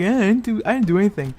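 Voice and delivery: mock-casual denial; acting cool. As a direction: shrug it off, pretending nothing happened. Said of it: "trying to act cool and shit".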